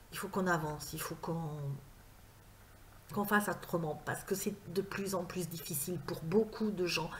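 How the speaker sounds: grave, quiet and slowing down; serious and grave. Real, not acted. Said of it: "je suis un peu grave là".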